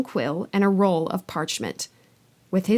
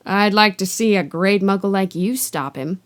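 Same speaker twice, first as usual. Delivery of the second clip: grunting giant; 3 dB louder than usual. Acted. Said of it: "Hagrid grunted".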